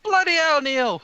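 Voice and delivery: loud, high-pitched outburst; hammed-up angry mother; exasperated scolding. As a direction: snap at your son, shouting. Mother scolds son over debt.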